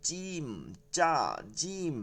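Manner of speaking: "জিম" said firm with a hard onset; firm, hard sound. Shown as a demonstration. Teacher showing the letter, firm and hard. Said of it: "শক্ত এবং কঠিন করে".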